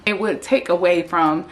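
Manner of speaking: talking with retainers in; slightly lisped retainer speech; wearing a retainer. Real, not acted. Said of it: "if you notice that I'm talking funny, it's because I have my, um, retainers in".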